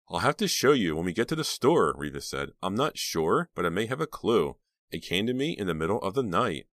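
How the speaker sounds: a hint of an eager teen girl; teenage girl voice. Reva voiced in the story.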